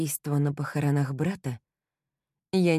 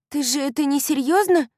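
high, loud disbelieving friend; can't believe what she hears; shocked young woman asking; incredulous girlfriend; 10 semitones higher, 7 dB louder than usual. A narrator's reading. Kylie disbelieving.

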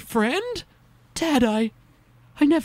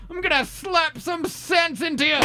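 furious threat shouted out; angry shout; 2 semitones higher than usual. Acted. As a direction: yell it while lunging. Attacking younger self, shouting.

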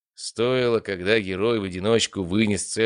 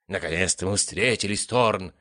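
pompous. Acted. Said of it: "прочитал сценарист пафосным голосом".

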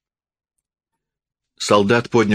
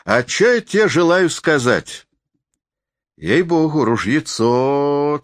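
high, drawn-out rustic character voice; drunken forester, goading; 7 semitones higher than usual. A narrator's reading. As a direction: stretch the words out high and boastful. (пьяный лесник, высоко и врастяжку)

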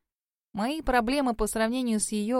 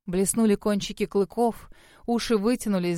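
ordinary delivery

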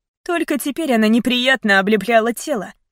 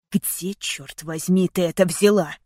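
through gritted teeth; 3 semitones lower than usual. Acted. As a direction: spit the words out in anger. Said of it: "Зло процедил он сквозь зубы".

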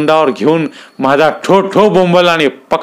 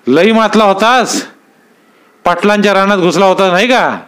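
menacing threat; 6 semitones higher than usual. Acted. Dada scolds the frightened fisherman, menacing and raised. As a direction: lean on him, threatening.

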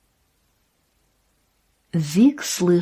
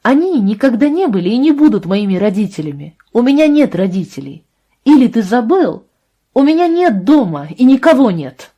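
put-on girl's voice, louder and higher, rising fury; angry outburst; 5 semitones higher, 6 dB louder than usual. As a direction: hurl it at him, hurt and furious. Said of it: "Она сердито посмотрела на него". (обиженная, гневная вспышка, громче и выше)

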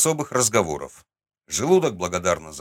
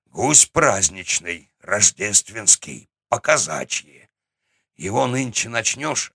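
a hint of an unhurried old grandfather; голос старика. Grandfather explains the goose. (неспешный голос старика)

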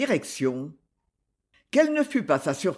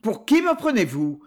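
curt tone; 3 semitones higher, 3 dB louder than usual. Acted. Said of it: "d'un ton cassant".

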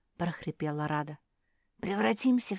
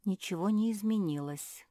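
ordinary delivery

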